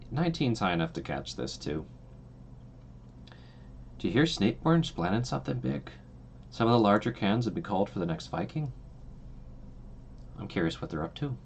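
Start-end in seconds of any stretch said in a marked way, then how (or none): 4.0-11.4 put-on a light, half-hearted Irish accent. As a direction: gossip in a mild Irish lilt. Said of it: "I'm doing an Irish accent".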